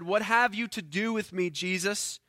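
understated crying out, a touch of force; mild loud cry. Acted. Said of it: "crying out with a loud voice".

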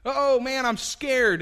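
high, loud hammed-up fright; the preacher teasing the frightened disciples, high and loud; mock scared. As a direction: play the disciples as scaredy-cats. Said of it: "They cried out in fear".

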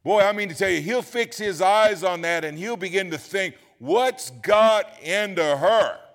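loud, high preacher's cry, slowing on the last words; fiery sermon shout; loud preaching. Real, not acted. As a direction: shout it out from the pulpit. Preaching at full force.

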